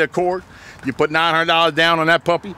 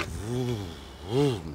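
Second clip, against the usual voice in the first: engine vroom; 9 semitones lower, 11 dB quieter than usual. Retold or imitated. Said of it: "all she does is go".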